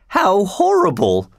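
lightly voiced shocked lady, drawn out; horrified cry. A narrator's reading. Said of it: "cried Missus Otis".

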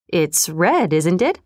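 put-on quiet old man asking. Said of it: "he said".

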